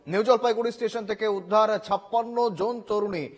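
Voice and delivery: punchy headline delivery with falling phrase ends; emphatic TV news bulletin read. Acted. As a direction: read out the top story as a news anchor. Anchor reads the headlines.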